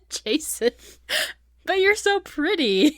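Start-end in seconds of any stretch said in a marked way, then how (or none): 1.6-2.9 high, drawn-out gushing; imitating a smitten man with no filter; blurted admiration. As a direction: gush it slowly, way up high. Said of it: "surprising himself with his candor".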